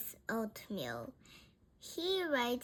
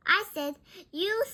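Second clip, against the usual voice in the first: higher, louder, quick retort; raised-voice correction; emphatic correction; 7 semitones higher, 7 dB louder, faster than usual. A narrator's reading. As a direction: correct the mishearing. Frank corrects a mishearing.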